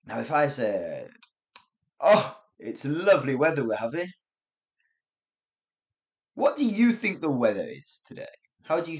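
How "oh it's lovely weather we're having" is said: dry British sarcasm; mean the opposite while sounding politely appreciative; understated mock appreciation; sarcastic. Shown as a demonstration. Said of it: "It's a bloody rainy day".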